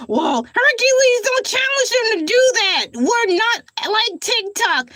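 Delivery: a hint of a chiding sidekick; second voice. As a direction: talk back to yourself as the sensible one. Arguing with himself in another voice.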